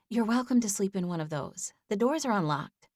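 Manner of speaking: a caring neighbour lady; kind older woman voice. A narrator's reading. Amanda's voice held.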